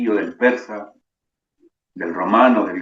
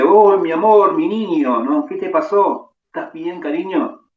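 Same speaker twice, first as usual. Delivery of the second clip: high, pleading mother's voice, louder; desperate mother; 7 semitones higher, 5 dB louder than usual. Acted. A rabbi voicing a frantic mother at her son's bedside, high and pleading. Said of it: "y le dice".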